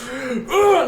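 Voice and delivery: high, sudden mock grunt; retold effort grunt. Woman throws the book in the fire, mock panicked grunt. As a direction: grunt as if hurling something in panic.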